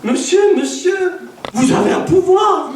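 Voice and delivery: voix aiguë et forte, en riant; s'écrier, émerveillée; stupeur émerveillée. Retold or imitated. La policière guérie s'exclame. (femme guérie, stupéfaite devant le prédicateur)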